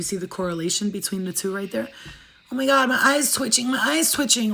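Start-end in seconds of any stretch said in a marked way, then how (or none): 2.5-4.5 higher, mildly alarmed imitation; mock scared reaction. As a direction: act out a small panic. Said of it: "like you're scared".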